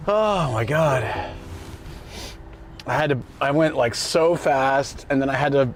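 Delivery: panting out of breath after rushing. Real, not acted. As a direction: talk between heavy breaths, out of breath. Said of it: "I'm so out of breath right now".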